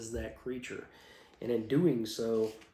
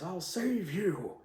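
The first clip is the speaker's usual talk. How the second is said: heroic Dork; 7 semitones higher, slower than usual. Acted. Dork calls out to duke.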